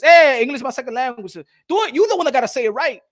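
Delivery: lightly played indignant retort; defiant retort. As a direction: snap back at the critics.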